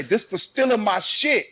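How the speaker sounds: high, loud coached cussing; loud fight line. Acted. Parent coaching daughter to cuss in a fight, loud. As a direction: demonstrate a loud angry shout. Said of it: "I want you to say it loud".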